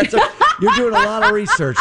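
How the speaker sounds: chuckling through the words; laughing. Real, not acted. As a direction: laugh while you say it. Host laughs at guest's confusion.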